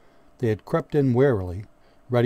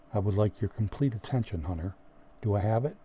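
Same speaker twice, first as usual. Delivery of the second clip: soft and quiet; 5 dB quieter than usual. Acted. Sergeant softly demands the new man's attention, quiet. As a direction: speak softly, holding his attention. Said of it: "and then spoke softly".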